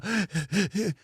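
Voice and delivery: imitating a winded huffing gasp; mock out of breath gasp. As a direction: gasp like an out-of-shape hiker. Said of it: "J R's going".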